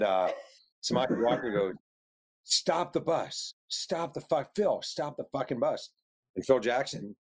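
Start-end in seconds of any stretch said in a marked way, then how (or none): 2.4-5.9 high-pitched, drawn-out mock demand; retold urgent demand. Acted angry demand to stop bus.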